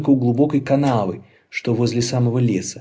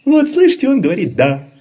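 high, loud whiny sickly voice; fake invalid; 13 semitones higher, 5 dB louder than usual. Laban fooling the bunnies, high whiny sickly voice. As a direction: pretend your voice is failing.

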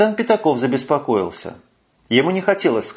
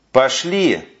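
softly. A narrator's reading. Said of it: "мягко проговорил капитан Пятаков".

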